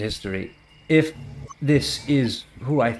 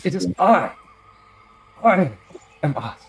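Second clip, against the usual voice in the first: proud reveal; 8 semitones higher, 6 dB louder than usual. Acted. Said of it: "He goes".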